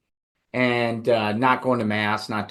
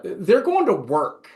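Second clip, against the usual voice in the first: mildly raised, lightly voiced stern rector; half-acted scolding of a sleepy seminarian, a touch higher; rector's lecture; 4 semitones higher than usual. Rector scolding a seminarian who slept in, mildly raised. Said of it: "he'd say".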